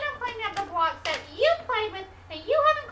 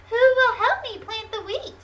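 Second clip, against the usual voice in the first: hen voice; 5 dB louder than usual. Acted. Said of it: "she said".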